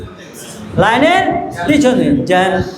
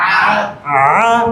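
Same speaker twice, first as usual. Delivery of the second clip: "আ" called out loud as one long open a; loud drilled vowel. Shown as a demonstration. Teacher drills pupils on the vowel, calling it out loud. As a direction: shout the vowel "আ" for the class to copy. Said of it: "এটা বলো".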